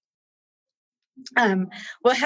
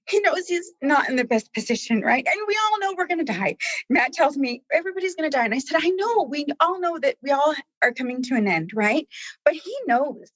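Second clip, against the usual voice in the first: higher, teary voice that keeps wavering; tearful; 5 semitones higher than usual. Real, not acted. Guest telling of a client dying of cancer, tearful. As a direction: push on through real tears. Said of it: "this is where it gets me".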